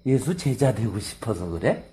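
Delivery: slow, teasing taunt; sly jab. Acted. Blind man teasing the Pharisees, sly and slow. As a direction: needle them with a sly question. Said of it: "약을 팍 찌르는 거예요".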